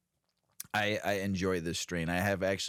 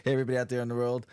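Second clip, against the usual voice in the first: hype host greeting; 6 semitones higher, faster than usual. Acted.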